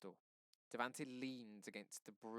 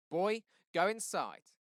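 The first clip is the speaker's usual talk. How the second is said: slow, high and much louder command; harsh shout; 9 semitones higher, 13 dB louder, slower than usual. Acted. Cop shouts at Seven to go inside. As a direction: cut the boy off with a shouted order.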